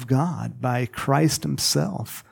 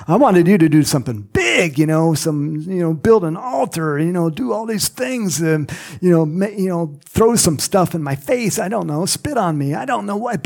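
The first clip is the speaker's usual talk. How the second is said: higher-pitched, hammed-up grumbling; mock indignant complaint; 3 semitones higher, 4 dB louder than usual. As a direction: rattle off an exasperated mock complaint. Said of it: "he got all mad".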